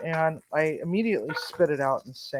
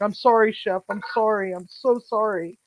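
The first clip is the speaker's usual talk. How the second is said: tearful apology; 4 semitones higher than usual. Retold or imitated. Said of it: "tears are streaming down his face".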